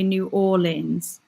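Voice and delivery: "New Orleans" read out as "noo AW-linz"; two-syllable "Orleans" in "New Orleans"; Brooklyn pronunciation. Acted. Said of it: "I'm from Brooklyn and we say".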